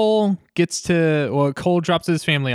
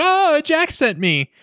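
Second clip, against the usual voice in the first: mock innocent reply; 12 semitones higher, slower than usual. Acted reply of a pinned-down character.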